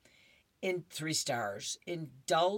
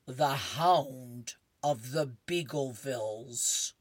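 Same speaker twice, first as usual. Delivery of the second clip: slow, grand title read; slower than usual. Acted. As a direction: announce it like a book cover. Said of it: "he reads the title".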